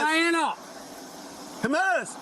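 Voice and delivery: calling out. Real, not acted. Officer calling out to colleague.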